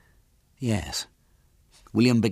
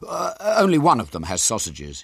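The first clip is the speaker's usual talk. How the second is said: reassuring; 5 semitones higher, 4 dB louder than usual. Acted. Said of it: "he said reassuringly".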